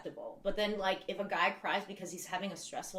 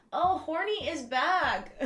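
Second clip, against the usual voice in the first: excited greeting; 7 semitones higher, 6 dB louder, slower than usual. Real, not acted. Greeting returning chatter excitedly.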